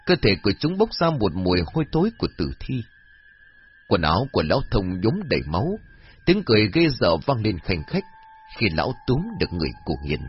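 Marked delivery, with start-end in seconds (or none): none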